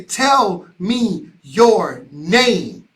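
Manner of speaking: very slow, every word spaced out; slowly asking each nurse's name; slow gentle request. Retold or imitated. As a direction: ask it slowly and kindly. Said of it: "And I would say".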